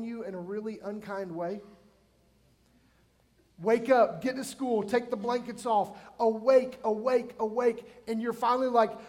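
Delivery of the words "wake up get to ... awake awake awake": loud, insistent rising calls; impatient parent. Retold or imitated. Parent yanking a kid out of bed, loud nagging. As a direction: rouse a teen who won't get up. Parents waking kids unkindly.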